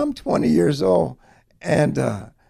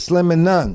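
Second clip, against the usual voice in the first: plain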